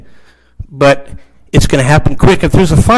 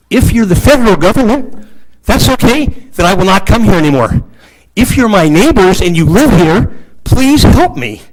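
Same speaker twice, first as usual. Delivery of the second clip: emotional plea; 3 semitones higher than usual. Real, not acted. Resident begging council as neighbors for help, real emotional plea. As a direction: plead earnestly, voice rising.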